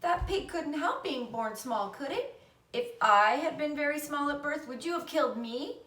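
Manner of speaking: put-on high, earnest child's plea; pleading argument. A narrator's reading. Fern pleading with her father, high and earnest. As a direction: press him with a desperate question.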